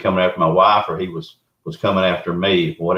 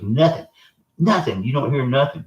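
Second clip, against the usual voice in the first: wife's eerie whisper; 6 semitones higher than usual. Retold or imitated. Wife quoted in tense silence.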